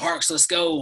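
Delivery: put-on rough southern voice. Recalling your coach calling you after practice, do Coach Atterbury's rough Southern country voice. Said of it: "he's got this rough voice and from the South".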